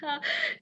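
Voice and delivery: short, knowing chuckle; amused chuckle. Acted. Innkeeper laughs at the runaway couple's secret, amused.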